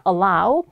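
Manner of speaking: "Allow" with a clear OW ending, as in "cow"; AU pronunciation. Shown as a demonstration. Teacher repeats the corrected word for students, "Allow" ending in OW. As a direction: say "Allow" slowly, opening into AH-OO. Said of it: "아우 발음으로 맞춰주셔야 됩니다".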